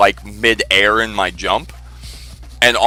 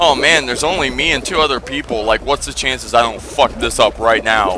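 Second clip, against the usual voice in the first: ordinary delivery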